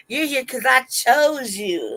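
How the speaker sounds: slow, drawn-out mock swagger; hot boy speech. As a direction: declare it slowly with playful arrogance. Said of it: "my little hot boy speeches".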